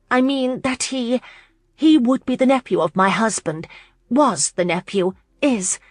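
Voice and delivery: high, halting explanation; flustered clarifying. A narrator's reading. Lauren tries to explain the nephew, flustered. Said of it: "she stupidly attempted to clarify".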